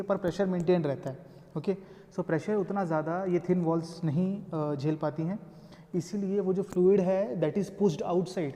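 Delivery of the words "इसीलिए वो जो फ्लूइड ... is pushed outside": Fluid है that is pushed outside को धीरे, शब्द-शब्द अलग करके; slow explanation. Shown as a demonstration. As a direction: lay each word out slowly for students. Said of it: "teacher repeats key phrase". (धीमी, समझाने वाली आवाज़ में)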